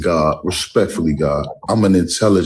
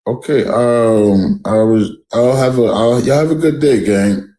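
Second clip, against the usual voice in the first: huffy goodbye; 7 semitones higher, 4 dB louder than usual. Real, not acted. Leaving after being called out.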